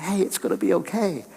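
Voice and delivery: tender, hushed comfort; calm the crying baby; soothing a baby. Retold or imitated. Holding a crying baby, tender reassurance.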